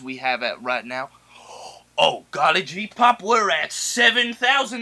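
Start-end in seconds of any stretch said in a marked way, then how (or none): 2.0-4.8 put-on golly-gee eager kid voice; gee-whiz innocent kid; wholesome 1950s kid. Host gushes over view count.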